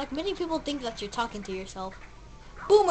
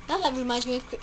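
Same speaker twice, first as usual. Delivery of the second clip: voice crack; faster than usual. Real, not acted. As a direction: voice cracking mid-word. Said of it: "voice crack much".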